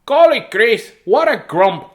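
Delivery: a hammed-up scolding granny; grandma groaning. Grandma scolding grumpy Grace, loud mock exasperation. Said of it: "groans Grandma".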